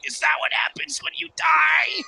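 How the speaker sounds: put-on high, whispered sob of a child; crying whisper. Scared child asking mom through tears, crying whisper. Child sobs question to parent.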